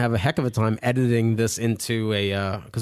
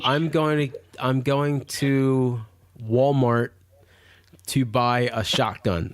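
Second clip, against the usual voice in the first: halting, drawn-out American accent; slower than usual. Shown as a demonstration. Asked by hosts for his American impersonation, American accent. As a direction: feel your way slowly into an American accent. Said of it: "your American impersonation for us".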